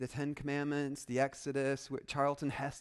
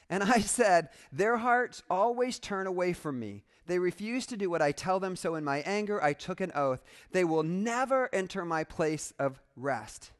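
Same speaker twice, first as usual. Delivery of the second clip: loud, forceful pronouncement; God angry; 3 semitones higher, 6 dB louder than usual. Acted. Preacher reads God's oath against Israel, angry. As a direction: read it out as a stern divine oath. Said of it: "Yeah, God gets mad".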